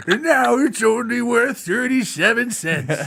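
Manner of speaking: put-on high, slow old man with a lisp; toothless old man. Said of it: "I put a little bit of a lisp under mine".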